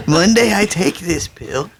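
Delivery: put-on lightly done, slow Jewish accent; a half-hearted Jewish accent. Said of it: "I can't do a good Jewish accent".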